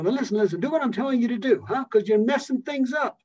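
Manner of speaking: rough big-city friend scolding a pal; Philadelphia friend. Retold or imitated. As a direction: berate a good friend, Philly style. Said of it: "They'll talk to you in Philadelphia like".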